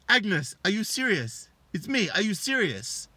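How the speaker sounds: high, loud, drawn-out disbelief; outraged husband. Retold or imitated. Husband reveals himself to his cheating wife, outraged. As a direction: imitate a husband demanding an answer.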